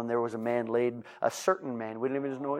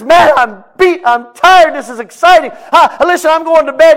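healed man heading to bed; happy tired man; 22 dB louder than usual. Acted. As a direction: sigh out happy exhaustion.

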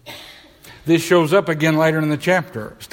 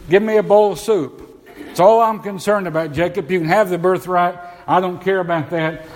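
lightly acted impatient demand, pitched up; mildly hammed-up hungry insistence; Esau; 3 semitones higher than usual. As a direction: play a hungry man dismissing everything but food. Acts Esau demanding food from Jacob.

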